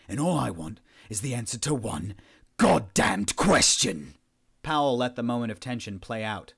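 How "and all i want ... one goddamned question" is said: angry raised voice. A narrator's reading. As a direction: explode on the last two words. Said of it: "raised his voice".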